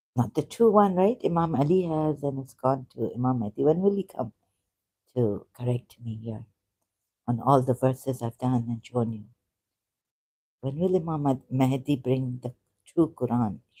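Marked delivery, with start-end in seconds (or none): none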